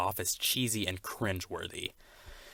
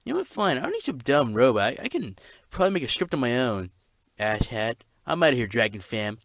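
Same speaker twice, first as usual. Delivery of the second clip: huffy exit; 3 semitones higher, 6 dB louder than usual. Acted. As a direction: storm off in a sulk. Storms off in a huff.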